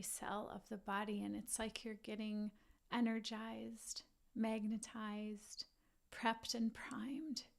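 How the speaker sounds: measured visualization with long pauses; guided meditation. Acted. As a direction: let each image settle before the next. Leads a guided rainbow visualization.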